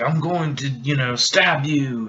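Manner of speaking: slow mock Australian threat; Australian accent. Mace Windu threatening to stab, mock Australian accent. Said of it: "he's Australian".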